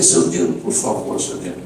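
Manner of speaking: soft, fading call after someone; gently calling him back, softly; retold heartfelt appeal. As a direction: retell a hesitant plea, dropping very quiet. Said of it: "meu coração ficou apertado".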